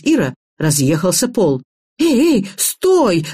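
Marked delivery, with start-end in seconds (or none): 2.0-3.3 yelling. A narrator's reading. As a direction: call out in mild panic. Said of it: "завопила я". (встревоженный высокий возглас)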